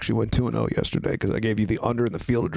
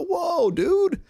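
startled shout. Retold or imitated. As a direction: call out a pushy question. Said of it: "You'd go".

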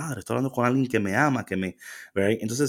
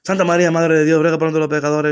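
mock rushed rosary; 5 semitones higher, 6 dB louder, much faster than usual.

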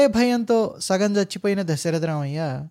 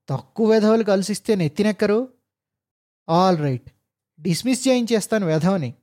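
seethe as he drives off; angry grumble; 3 semitones higher than usual. Acted. Officer fumes to himself in jeep, bitter anger. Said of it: "అనుకుంటూ".

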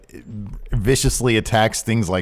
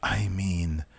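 loose Joey Janela whisper-scream; breathy half-shouted whisper; stage whisper; slower than usual. Retold or imitated. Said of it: "He whisper screams".

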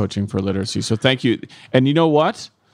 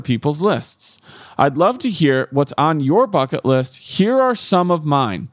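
reading a love letter; 2 semitones higher, slower than usual. Acted. Reads listener letter aloud.

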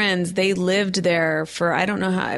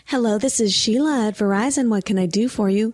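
a hint of customer-service greeting, pitched up; lightly voiced phone agent; 3 semitones higher than usual. Host playing Sheila at Verizon, lightly voiced agent. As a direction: imitate a helpful operator answering.

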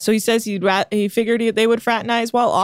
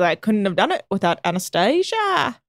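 put-on Jack's accent. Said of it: "Oh, wait, I'm doing Jack's accent".

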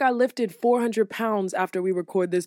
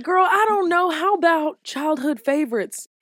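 mock fake enthusiasm; 6 semitones higher than usual. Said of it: "So I'm like".

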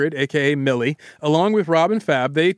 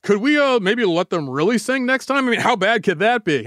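higher, tentative boardroom suggestion; lightly voiced executive floating an idea; second executive chiming in; 4 semitones higher than usual. Executive chimes in at a record label meeting, tentative suggestion. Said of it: "someone else, like, chimed in".

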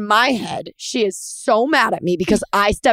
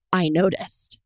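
sassy; 4 semitones lower, 4 dB quieter, slower than usual. Retold or imitated. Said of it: "Being sassy".

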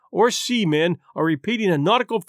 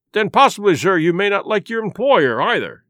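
louder, sharp retort; angry; 3 dB louder than usual. Acted. Squire retorts to the captain, a mild angry jab. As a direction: hit back at the captain, irritated. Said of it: "very angry".

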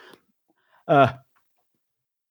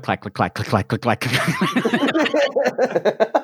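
click clack footsteps; 5 semitones higher, much slower than usual. Retold or imitated. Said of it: "the sound effect is click".

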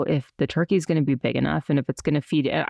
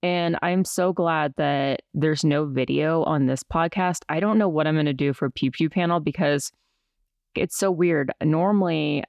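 stiff mouth after wisdom teeth; numb from the dentist. Real, not acted. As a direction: talk without moving your mouth much. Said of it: "I can't move my mouth as much because I had my wisdom teeth pulled".

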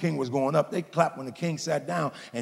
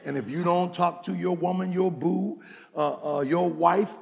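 ordinary talk

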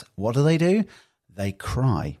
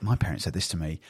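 ordinary delivery

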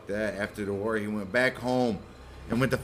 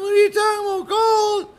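high falsetto nag; mock wife; 5 dB louder than usual. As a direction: play the baffled wife up high.

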